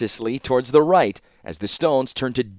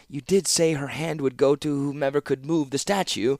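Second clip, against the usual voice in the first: timid Seneschal; 4 semitones higher than usual. A narrator's reading. Nervous Seneschal reminding the warlord of his promise, timid. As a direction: tread carefully with the reminder.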